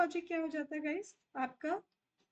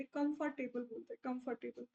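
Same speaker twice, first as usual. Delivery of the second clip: British accent; 3 semitones lower, 5 dB quieter than usual. Shown as a demonstration. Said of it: "ये लोग र को नहीं बोलते".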